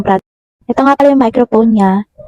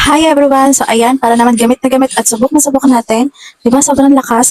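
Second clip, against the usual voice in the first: raised, higher greeting easing toward normal; mild shouting demo; 3 semitones higher than usual. Shown as a demonstration. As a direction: call out brightly to test the mic. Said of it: "gising-sigaw na ako ngayon".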